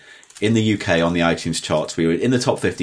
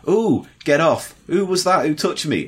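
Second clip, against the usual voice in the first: higher, mildly mock-panicked squeal; imitated startled TV presenter; 7 semitones higher than usual. Retelling a ghost-show presenter touched in the dark, mock startled. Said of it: "and Yvette said".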